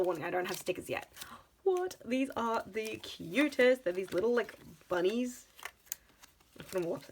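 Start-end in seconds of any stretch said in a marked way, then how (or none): 1.6-3.8 delighted surprise. Real, not acted. Delighted by the bunny stickers.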